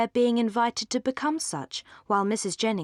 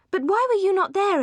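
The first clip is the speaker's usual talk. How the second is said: eager reproach; 11 semitones higher, 5 dB louder than usual. Acted. Marianne presses Edward eagerly.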